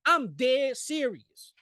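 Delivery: slow, flat-out dead serious; mock stern deadpan. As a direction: insist you're not laughing. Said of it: "with my arms folded like".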